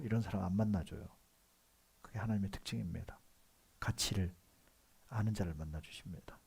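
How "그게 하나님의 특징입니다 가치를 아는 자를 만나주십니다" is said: ordinary delivery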